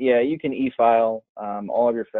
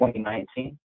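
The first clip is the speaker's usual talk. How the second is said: breaking up; 12 semitones higher, 5 dB quieter than usual. Real, not acted. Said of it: "You're breaking up".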